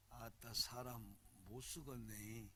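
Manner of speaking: low, slow, soft Jeolla drawl; 전라도 사투리. Shown as a demonstration. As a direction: savor the Jeolla accent slowly and quietly. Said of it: "전라도 말 봐". (낮고 느긋한 전라도 억양)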